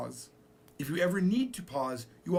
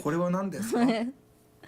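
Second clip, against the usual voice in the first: slow, each syllable drawn out; slow Japanese question; 3 semitones higher, 3 dB louder, slower than usual. Shown as a demonstration. Teacher repeats the Japanese question slowly for the student. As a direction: spell out the phrase for the learner. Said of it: "repeating slowly".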